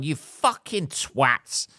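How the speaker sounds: "You fucking twats" stretched slowly; drawn-out insult. Retold or imitated. Honking at the swerving driver, drawn out. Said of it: "papped my horn and gone".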